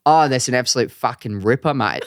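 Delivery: lightly put-on Aussie slang; playful mock-Australian; Australian accent. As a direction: show off the word like an Australian. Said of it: "have to speak in an Australian accent".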